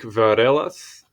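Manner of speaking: varelas drawn out with a Portuguese-like accent. Shown as a demonstration. Reader attempts a Greek surname aloud, slipping into Portuguese accent. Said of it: "that was like Portuguese accent".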